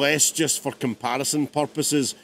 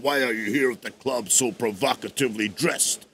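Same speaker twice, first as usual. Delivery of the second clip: lower, deep narrated vocal; deep house-track voice; 4 semitones lower, 3 dB quieter than usual. Retold or imitated. Producer quoting an old house song, in an imitated deep voice. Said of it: "deep voice that kinda runs through it".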